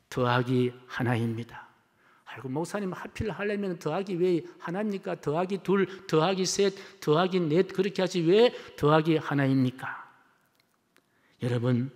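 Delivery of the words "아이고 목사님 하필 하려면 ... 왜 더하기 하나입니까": higher-pitched grumbling question; lightly acted protest, pitched up; puzzled objection. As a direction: pipe up like a congregant querying the pastor. Acts out congregant questioning the pastor.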